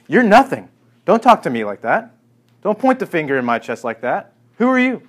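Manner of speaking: a God rebuking man, loud and scornful; indignant God. Acted. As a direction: put the upstart in his place. God voiced rebuking Job.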